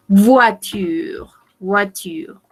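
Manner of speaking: "voiture" with oi said as wa and no final E. Shown as a demonstration. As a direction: say "voiture" as vwa-tyr, dropping the last E. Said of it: "la prononciation de ces deux lettres, c'est O A".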